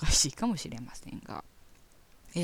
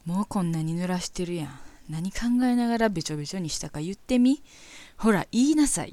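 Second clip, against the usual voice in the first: teasing, commanding, getting louder toward the end; mock dirty talk; 4 dB louder than usual. Reading a listener's racy mail aloud in a mock domineering voice. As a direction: play the pushy lover, egging her on.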